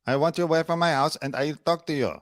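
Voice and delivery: lightly parodied fake Spanish accent. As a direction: mimic her put-on Spanish accent. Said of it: "having a fake accent here".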